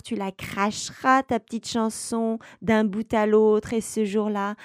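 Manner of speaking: a nasty little witch pouncing on the words; sour little witch voice. Acted. Witch taunts the narrator.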